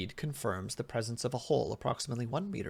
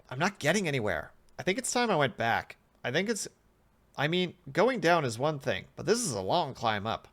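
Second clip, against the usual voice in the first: slightly raised pleading voice; weary, reluctant test subject; 4 semitones higher, 5 dB louder than usual. Acted. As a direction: argue for turning back. Subject wants to turn back.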